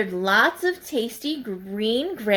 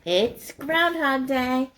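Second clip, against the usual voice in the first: 1 high slow; 4 semitones higher, slower than usual. Shown as a demonstration. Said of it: "repeated three ways".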